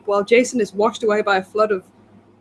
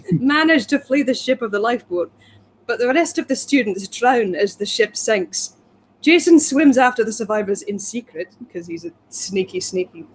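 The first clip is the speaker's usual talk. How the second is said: put-on Scottish accent. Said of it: "he's insulted as a Scot".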